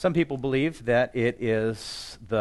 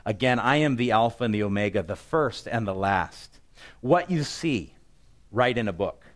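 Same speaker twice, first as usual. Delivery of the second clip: booming voice; 5 dB louder than usual. Acted. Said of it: "just this booming voice".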